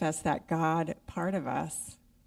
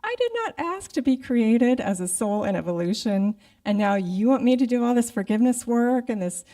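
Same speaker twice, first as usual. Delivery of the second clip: loud, indignant railing at God, voice raised and higher; retold rant, higher and louder; mad at God; 5 semitones higher, 5 dB louder than usual. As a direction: reenact the old fury at God, complaining hard. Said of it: "I spent three months on being mad at God".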